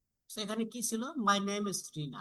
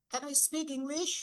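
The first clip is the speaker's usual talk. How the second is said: slow and higher, rising on English; rising intonation; 7 semitones higher, much slower than usual. Shown as a demonstration. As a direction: stretch it out and lift English at the end. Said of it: "এইটা আমরা কি up করব". (ধীরে, English-এ স্বর ওঠানো)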